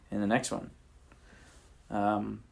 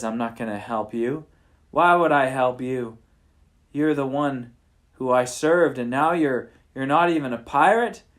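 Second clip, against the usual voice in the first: rising into a louder angry refusal; stern pirate king turning angry; a touch of mock anger; serious; 5 dB louder than usual. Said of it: "Clubs gets real serious".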